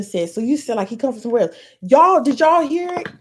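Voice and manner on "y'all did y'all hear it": louder, rising call to the viewers; rally the chat to agree with you; excited call-out to chat. Real, not acted. Streamer loudly urging her chat to confirm it. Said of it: "I need some participation".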